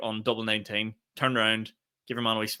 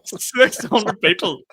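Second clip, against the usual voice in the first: slow, higher, louder Six hundred people; incredulous emphasis; 9 semitones higher, 7 dB louder, much slower than usual. Real, not acted. Telling his friend about the crowd, incredulous emphasis. Stunned by park run crowd.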